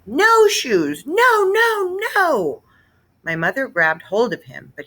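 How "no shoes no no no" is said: put-on loud, much higher toddler screams; a full tantrum scream. Fudge screaming at Mister Berman during his tantrum, loud and high. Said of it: "he screamed".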